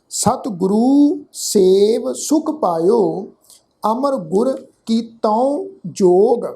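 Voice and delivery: measured verse reading, phrase by phrase; deliberate teaching recitation; scripture recitation. Shown as a demonstration. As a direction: recite the sacred verse with a pause after each phrase. Recites the verse being taught.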